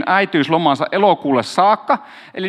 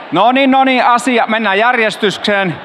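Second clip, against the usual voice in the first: calling for order; 4 semitones higher, 3 dB louder than usual. Real, not acted. Pastor calls the chatting crowd back to order, loudly. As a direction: raise the voice over the chatter to get attention.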